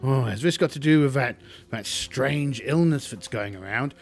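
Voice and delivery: a prissy recluse thrilled by the data; fascinated Tinker Tot. Acted. The Tinker Tot studying Slip, lightly voiced fussy curiosity. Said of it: "the Tinker Tot".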